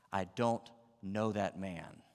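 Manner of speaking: slow, deliberate oath at normal volume; sworn denial. Acted. Peter denying Jesus to bystanders with an oath, slow and controlled. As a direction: deny it slowly, word by word. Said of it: "he does it with an oath".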